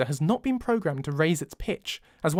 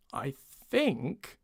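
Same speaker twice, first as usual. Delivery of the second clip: soft murmur; 6 dB quieter than usual. Acted. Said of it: "I murmur softly".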